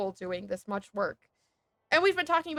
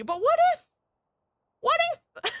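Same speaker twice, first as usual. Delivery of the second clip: high pleading what if; 4 dB louder than usual. Real, not acted.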